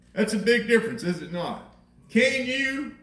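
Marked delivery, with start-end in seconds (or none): 2.1-3.0 raised pitch, tentative-request quote; questioning request. Acted. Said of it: "or just begging".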